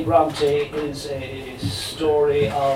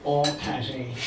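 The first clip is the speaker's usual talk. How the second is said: put-on dodgy Cork accent; 2 semitones lower, 5 dB quieter than usual. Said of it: "delivered in a dodgy Cork accent".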